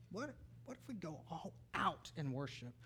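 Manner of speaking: soft, with a weighty pause before "out"; hushed repetition. Real, not acted. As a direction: drop the volume, then set "out" apart. Repeats question softly for effect.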